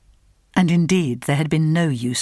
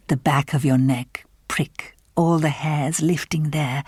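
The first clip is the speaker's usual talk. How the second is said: slow, hushed ghost-story whisper. Acted. The stranger describing the creeping chill to Helen, slow whisper. Eerie confidence about the cold.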